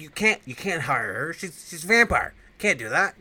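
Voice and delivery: loud, high, strained protest; outraged protest. Retold or imitated. Vincent protesting that the new host is a vampire, loud outrage. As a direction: shout him down in disbelief.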